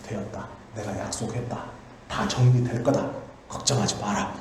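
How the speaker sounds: soft, low, unhurried reassurance; a lightly voiced king, quiet and assured; calm king. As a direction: settle him down quietly, the king's word is final. David calmly dismisses Joab.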